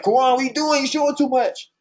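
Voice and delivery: high-pitched imitation of a fretting friend; mock alarmed friend. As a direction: lightly play up the worried scolding. Voicing friends' worried reaction to video.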